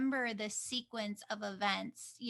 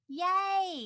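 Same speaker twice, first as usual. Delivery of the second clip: high, loud, drawn-out yay; excited cheer; 8 semitones higher, 7 dB louder than usual. Real, not acted. Cheers that the recording is up.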